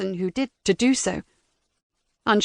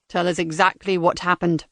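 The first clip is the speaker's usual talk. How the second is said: robotic voice; 4 semitones lower than usual. Acted. Interrogator demands.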